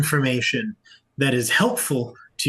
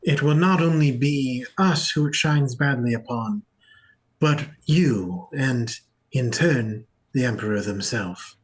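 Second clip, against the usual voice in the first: measured, formal warning with deliberate pauses; lightly voiced solemn envoy. Game master as envoy warning the players, solemn.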